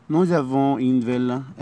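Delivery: nous avons une villa, very slow, the s of nous said as z; careful teacher's liaison. Shown as a demonstration. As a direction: spell out the liaison slowly. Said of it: "هننطقها زد".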